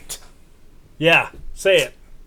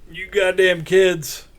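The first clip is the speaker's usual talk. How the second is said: put-on slow, higher cranky old man yell; grumpy old man; 5 semitones higher, slower than usual. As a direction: play a cranky old man shooing kids. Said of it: "Old man yells at cloud".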